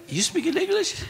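high, squeaky put-on Tennessee twang, laughing; mocking Tennessee accent with a laugh; mock Tennessee backwoods accent. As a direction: imitate a backwoods Tennessee local asking a stranger. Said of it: "it's just the accent".

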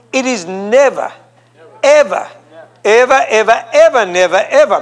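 preacher pounding never ever; emphatic never ever. Real, not acted. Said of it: "preaching emphasis".

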